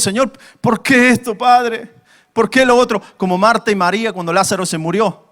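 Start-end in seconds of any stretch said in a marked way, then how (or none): 0.0-3.0 mildly embittered, higher-pitched plea; bitter questioning. Acted. Preacher acts bitter believers asking the Father why, mild protest. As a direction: press God with a pained complaint. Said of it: "nuestra alma está amargada y decimos".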